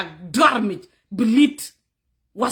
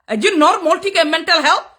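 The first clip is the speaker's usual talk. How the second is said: indignant scolding; 2 semitones higher, 4 dB louder than usual. Real, not acted. Berating troll on live stream.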